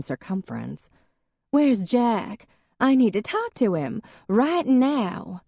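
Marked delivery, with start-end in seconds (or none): 1.5-5.4 put-on high, louder drunken demand; demanding drunk woman. A narrator's reading. Drunk ex-wife demanding Jack at the door, high and insistent. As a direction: push hard, she wants him now.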